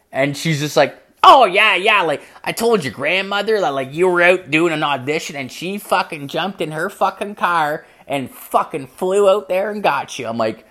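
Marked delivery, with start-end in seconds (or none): 1.2-10.3 higher, louder mom voice; excited retelling in mom's raised pitch; imitated mom. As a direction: play mom gushing out the story. Mother voiced, breezily recounting.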